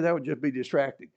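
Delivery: ordinary talk, nothing marked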